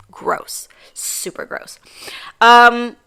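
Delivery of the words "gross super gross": disgusted whisper. Real, not acted. Disgusted aside after rant.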